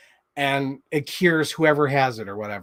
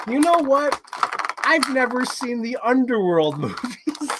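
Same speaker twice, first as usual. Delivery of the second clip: excited realization; 9 semitones higher than usual. Retold or imitated. Retelling own sudden idea.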